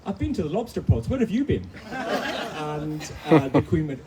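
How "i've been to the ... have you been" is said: lightly acted father, higher and louder; imitating dad's raised-voice retort; father calling up. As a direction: call it up to someone on a bigger boat. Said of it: "my father looks up and says".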